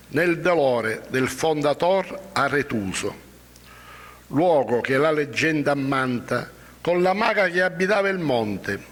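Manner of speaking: solemn, measured verse reading; poem recitation. Acted. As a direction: read each line with weight.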